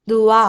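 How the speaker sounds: ധുവാ ending on an open long aa; no final m. Shown as a demonstration. Teacher correcting the ending, ധുവാ with no m. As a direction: say ധുവാ without the aam sound. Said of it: "ആം വരില്ല".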